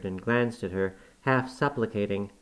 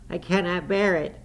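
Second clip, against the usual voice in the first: much higher, tearful and desperate; sobbing plea; 8 semitones higher, 4 dB louder than usual. A narrator's reading. Terrified boy begging his cousin, sobbing. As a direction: plead through sobs. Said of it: "he sobbed".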